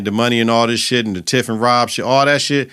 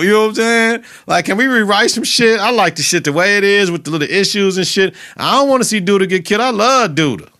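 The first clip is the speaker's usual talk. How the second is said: high, distressed pleading; 8 semitones higher than usual. Real, not acted. Fan begging not to see Duda killed, high and pleading. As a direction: beg for the show to spare him. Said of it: "I don't want nobody to get killed".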